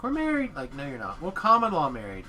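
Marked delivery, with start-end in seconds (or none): 0.0-0.5 much higher mock-proud announcement; mocking dating couples. Dating couple claiming to be married, mocked in a high voice. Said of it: "and they're like". 1.2-2.2 louder, lightly mimicked protest; mock defensive couple. Dating couple defending their claim, mocked in a raised voice.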